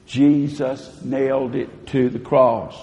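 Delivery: slow, measured unison line; call-and-response affirmation. Shown as a demonstration. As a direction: lead the room through it slowly. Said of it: "Can you say that with me?".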